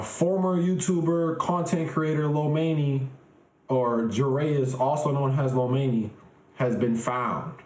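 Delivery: lightly voiced news report on himself; mock news anchor. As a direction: read it like a measured news bulletin. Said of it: "y'all will see me on the news".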